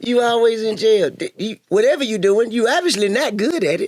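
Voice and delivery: high, laughing tease; laughing jab at a friend's failed crime career; teasing laugh. Real, not acted. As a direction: poke fun while laughing. Mocking his criminal record.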